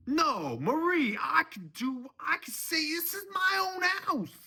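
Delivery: very high, loud indignant yell; angry shouting. Acted. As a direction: shout her down, pitch soaring. Father-in-law overrules daughter.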